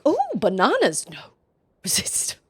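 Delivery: mock temptation, fading to a whisper; tempted by bananas. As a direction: imitate someone fighting temptation. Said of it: "she says something like".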